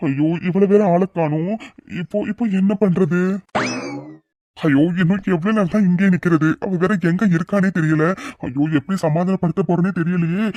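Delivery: whiny, anxious self-talk; nervous fretting. Acted. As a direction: mildly panicky muttering to himself. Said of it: "எதுக்குடா நீ பயந்துட்டு இருக்கா".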